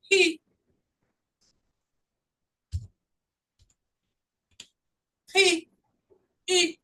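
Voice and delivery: "ri" and "I" lifted high and stretched; teacher demo of long e, high. Shown as a demonstration. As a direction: sing out the long "ri". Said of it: "O E aqui tem som de I".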